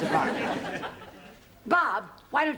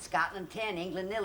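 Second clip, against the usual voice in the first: hushed explanation; 3 semitones lower, 5 dB quieter than usual. Acted. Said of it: "Don't you get it, Robert?".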